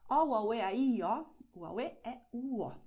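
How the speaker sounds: O, u, a, u, e run together as Brazilian vowels. Shown as a demonstration. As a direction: glide through O, u, a, u, e, a, i, o in Brazilian Portuguese. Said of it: "Brazilian way of saying that".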